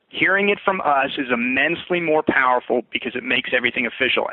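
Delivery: measured cadence with emphasis on "immensely" and "official"; slow, emphatic reading. Shown as a demonstration. Coach models a client script line, slow cadence with emphasis. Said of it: "exactly the way I just read it. Slow cadence, emphasis on certain words".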